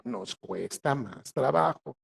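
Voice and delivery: "nos cuesta más trabajo" dicho muy despacio; lento y recalcado. Shown as a demonstration. Se incluye, repite muy despacio. (muy lento, palabra por palabra)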